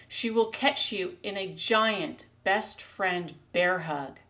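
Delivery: measured poetry recital with drawn-out phrases; unhurried spoken verse; poem reading. Acted. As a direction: read your own poem slowly, pausing between images. Reads her own poem.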